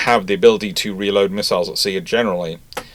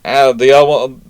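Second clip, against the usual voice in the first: usual speaking voice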